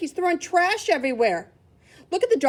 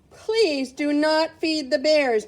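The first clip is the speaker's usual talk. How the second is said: slow sign reading; 3 semitones higher, 5 dB louder, much slower than usual. Shown as a demonstration.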